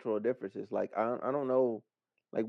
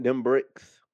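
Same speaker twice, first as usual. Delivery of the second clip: "them bricks" very slow; drawn-out emphasis; 2 semitones lower, 4 dB louder than usual. Real, not acted. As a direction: stretch out "them bricks", savoring each word. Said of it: "Why do you have to say it like that?".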